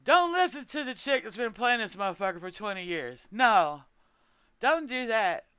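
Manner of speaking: mock their ignoring of her; sarcastic quote. Streamer imitates raiders dismissing her, mocking and loud. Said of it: "I was like".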